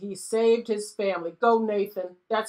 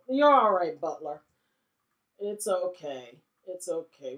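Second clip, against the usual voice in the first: soothing; 2 semitones lower than usual. Pretend. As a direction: gently settle a nervous servant. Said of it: "afraid of Nathan".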